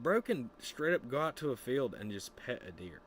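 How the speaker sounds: ordinary delivery, nothing marked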